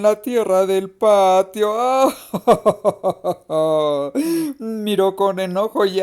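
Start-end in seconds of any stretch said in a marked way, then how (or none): 1.8-4.5 long wavering vocal reaction; drawn-out "ah". A narrator's reading. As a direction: let out a long, broken "aah". Narrator sound after the urine scene.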